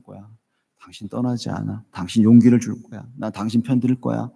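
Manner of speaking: lightly imitating a wife consoling her husband; wife's comfort, mildly voiced. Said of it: "아내가 이런 말 해주더라고요".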